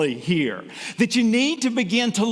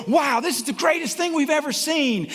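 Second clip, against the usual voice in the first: mock crowd enthusiasm; 8 semitones higher than usual. Imitating cheering circus crowd.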